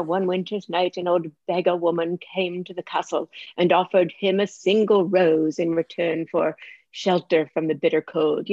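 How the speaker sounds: lightly imitated British storybook accent. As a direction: recite like a child copying a British narrator. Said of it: "in that British accent".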